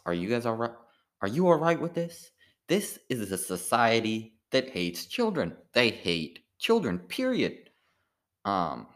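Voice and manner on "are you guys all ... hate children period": mock-outraged pundit voice, pitched up and louder, slowing on the last lines; Tucker Carlson impression. Comic imitating Tucker Carlson for the open mic crowd, mock outraged and pitched high. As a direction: ham up an indignant TV host lecturing the audience. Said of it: "I love the way he talks".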